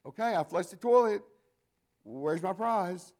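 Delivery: put-on a proud little kid asking for a reward; child's voice. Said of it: "you hear this voice".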